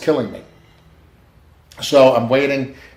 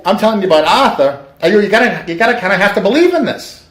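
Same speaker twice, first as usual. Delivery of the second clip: higher, emphatic pleading; louder, urgent insistence; retold insistence; 8 semitones higher, 4 dB louder than usual. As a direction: press the point hard, retelling it. Urging her to believe the message.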